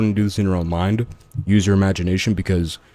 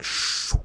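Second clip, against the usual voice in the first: whooshing shh; 7 dB quieter than usual. Shown as a demonstration. Imitates sucking out someone's abilities.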